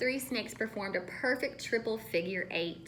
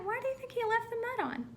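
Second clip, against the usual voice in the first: questioning; 13 semitones higher, faster than usual. Shown as a demonstration. Repeats question to children.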